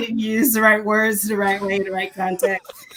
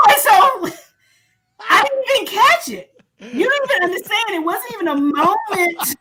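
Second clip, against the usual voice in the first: laughing; 9 semitones higher than usual. Real, not acted.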